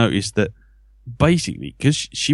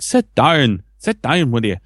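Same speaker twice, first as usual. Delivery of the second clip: higher-pitched Northern Irish teacher; Northern Irish accent; 4 semitones higher than usual. Retold or imitated. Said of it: "Northern Irish accent".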